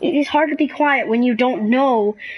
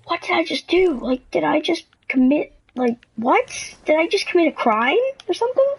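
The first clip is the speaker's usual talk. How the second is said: retold bafflement; 5 semitones higher than usual. Retold baffled reply to gasp.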